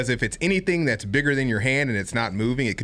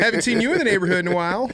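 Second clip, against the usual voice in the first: skunk voice; 9 semitones higher, 4 dB louder, much faster than usual. Retold or imitated. Voicing the skunk's greeting.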